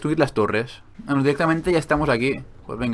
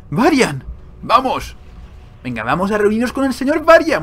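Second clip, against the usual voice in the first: raised, louder hero's call; 8 semitones higher, 4 dB louder than usual. Acted. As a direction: summon everyone to join the leader. Calls out to game hero.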